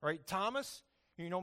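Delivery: ordinary talk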